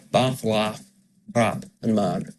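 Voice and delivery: "Bath" and "laugh" with the A of "trap"; one short A through "Bath, laugh, trap, and man"; same Scottish vowel. Shown as a demonstration. Coach repeating the matched vowels, Scottish A in "Bath" and "man". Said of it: "There's no difference".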